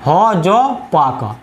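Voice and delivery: "ह ज पा" broken into ha, ja, paa; syllable by syllable. Shown as a demonstration. Teacher spelling out the memory word, "ह ज पा" in separate syllables. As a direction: separate each piece of "ह ज पा" with a gap. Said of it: "इसको पढ़िए दस हजपा".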